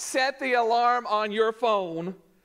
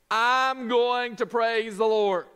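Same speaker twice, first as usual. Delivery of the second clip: determined; slower than usual. Shown as a demonstration. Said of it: "it's my choice based upon my will".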